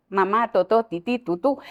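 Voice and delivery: put-on light cooing baby-talk syllables; mock talking down to a toddler; a hint of baby talk. Shown as a demonstration. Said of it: "no hablarles en chiquito".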